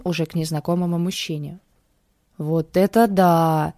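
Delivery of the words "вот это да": slow, drawn-out delighted gasp; delighted drawl. A narrator's reading. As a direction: stretch it out in wonder. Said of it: "восторженно протянула Вера".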